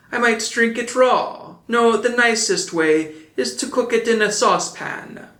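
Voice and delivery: put-on high, eager puppet boy; eager Pinocchio. A narrator's reading. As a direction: muse over the egg with hungry glee. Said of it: "kissing it, said".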